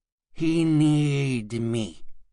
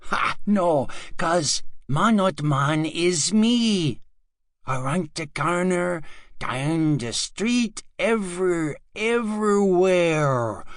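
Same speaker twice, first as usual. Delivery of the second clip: creepy villain; 5 semitones higher than usual. Acted. Villain reveals himself.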